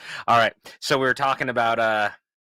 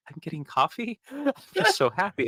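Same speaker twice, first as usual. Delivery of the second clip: high squeal of delight, laughing; giddy and happy; 9 semitones higher than usual. Retold or imitated. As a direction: gush with childlike joy. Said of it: "And I was like".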